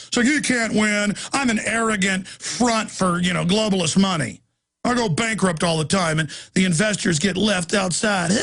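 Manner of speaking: lightly voiced pompous tycoon; mocking Donald Trump. Host parodies an arrogant casino owner dismissing a candidate, mocking. Acts out Trump attacking Ron Paul.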